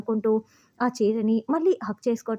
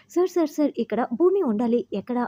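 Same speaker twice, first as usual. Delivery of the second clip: urgent calling; 2 semitones higher than usual. Retold or imitated. Priya runs out calling.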